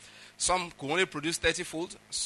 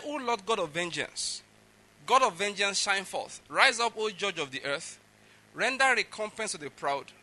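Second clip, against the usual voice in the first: measured, declaimed psalm; scripture reading; 4 semitones higher than usual. Acted. Preacher reading David's psalm to the congregation, declaimed. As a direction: read it out as a solemn plea.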